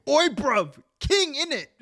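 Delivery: high, hammed-up London slang voice; mock Cockney. Mock Cockney greeting shouted at Buckingham Palace, high. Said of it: "be like".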